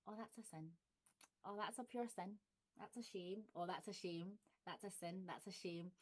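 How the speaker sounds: soft, quiet sympathy; pitying Glaswegian. Shown as a demonstration. Quietly pitying someone, in Glaswegian. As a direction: softly pity someone. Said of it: "saying demo".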